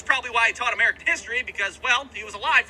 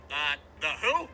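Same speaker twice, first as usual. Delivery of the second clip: put-on confused kid; 8 semitones lower, 6 dB quieter than usual.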